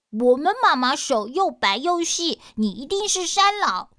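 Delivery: put-on high, loud shout of kids catching the monster; accusing children. Children exposing the monster at the door, high and loud. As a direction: call him out, high and loud.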